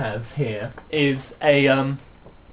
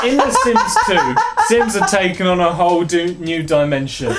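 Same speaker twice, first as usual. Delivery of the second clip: joking wedding toast, half-laughing; best man speech. Pretend. Reading game intro to friend as a best man speech. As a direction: rib the family like a best man. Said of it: "in the style of a best man speech".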